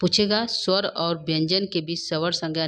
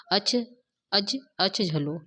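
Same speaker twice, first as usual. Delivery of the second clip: slow syllable split; slower than usual. Shown as a demonstration. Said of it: "यह करेगा न अच हलो".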